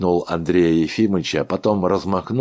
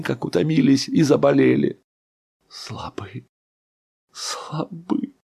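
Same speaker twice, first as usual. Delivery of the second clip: a broken man scolding himself; bitter lament; 7 semitones higher than usual. A narrator's reading. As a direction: mourn your own weakness aloud. Ivan Dmitrich's bitter lament.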